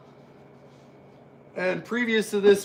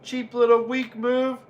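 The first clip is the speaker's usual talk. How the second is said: excited commentary; 5 semitones higher, 6 dB louder than usual. Acted.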